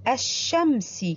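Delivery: الشمس said with the lam silent and the shin doubled, aš-šams; careful model pronunciation of الشمس; الشمس slow, with the sun letter doubled; demonstrating the word. Shown as a demonstration. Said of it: "هيا نلفظ معًا".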